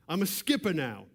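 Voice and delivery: put-on a first light try at a New York mobster accent; lightly voiced New York wiseguy accent; mob accent. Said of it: "I'm trying to do the accent".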